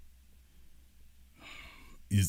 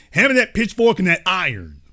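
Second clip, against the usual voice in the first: mock barber call; 5 semitones higher than usual. Mock barber, repeated louder.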